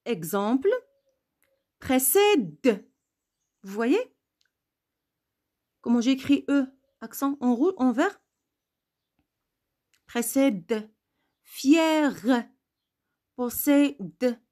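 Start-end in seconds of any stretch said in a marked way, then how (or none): 1.8-2.9 précède with the closing d released; mute final E. Shown as a demonstration. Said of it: "un E muet". 10.1-14.4 Précède, Fier, Possède with separated final consonants; mute final E. Shown as a demonstration. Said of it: "un E muet".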